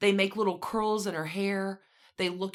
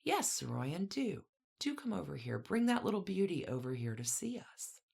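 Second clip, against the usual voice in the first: a small, softer upper-class voice, lightly peeped; peeping softly; 7 dB quieter than usual. Retold or imitated. Tiny bony lady coaxing Saroyan over, lightly peeped. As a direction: call them over in a little bird's voice. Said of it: "the tiny bird-like one peeped".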